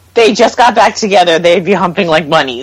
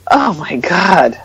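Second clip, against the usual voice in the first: exasperated oh my God; 2 semitones lower, much slower than usual. Retold or imitated. Watching a cringey scene, slow exasperated dismay. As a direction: sigh it out in slow disbelief. Reacting to the show.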